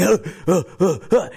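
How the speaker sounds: short breathy huffs; acted labored breathing; mock panting. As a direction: huff as if struggling for air. Struggling lungs act out panting.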